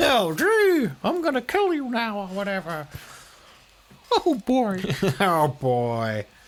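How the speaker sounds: put-on high squeaky voice, each "boy" stretched out. Speaker, asked to try a famous cartoon voice, gives it a go: Mickey Mouse voice. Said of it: "With Mickey Mouse's voice".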